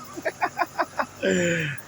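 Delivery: high, airy burst of laughter; amused laugh after a punchline; real laugh. Real, not acted. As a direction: laugh at the absurd memory. Laughs at his own story.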